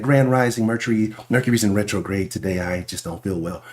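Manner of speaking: low, soft, fading mock spiritual voice; mock astrology person. Streamer mocks astrology fans to chat, low soft sigh. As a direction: mimic someone blaming Mercury retrograde, sinking low and soft. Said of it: "I be hearing motherfuckers saying that".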